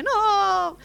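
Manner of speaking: put-on crying child. Little boy telling the man he lost money, high wailing. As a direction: blurt it between sobs like a kid.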